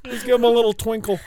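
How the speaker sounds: hammed-up coaxing; mock begging. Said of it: "he's begging me".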